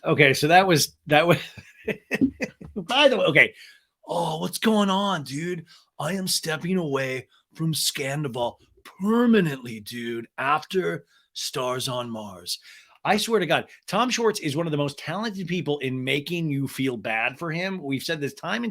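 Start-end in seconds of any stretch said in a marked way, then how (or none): 4.1-12.6 lightly voiced laid-back dude; dude bro voice. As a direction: drawl it like a mellow surfer. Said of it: "imitating Schwartz's clip".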